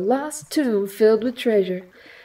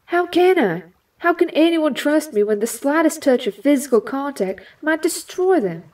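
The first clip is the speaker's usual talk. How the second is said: anguished plea; 4 semitones higher than usual. Acted. Rogue despairing over her touch.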